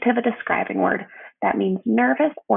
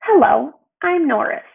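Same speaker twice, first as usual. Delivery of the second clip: bright, higher Norris greeting; cheerful Norris; 5 semitones higher, 4 dB louder than usual. Acted. Narrator voices dancing Norris meeting Elba, higher and eager. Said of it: "he said".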